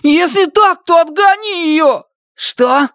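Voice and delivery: high, loud frantic plea; panicked. Acted. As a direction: beg in a panic. Panicked pleas to chase dog.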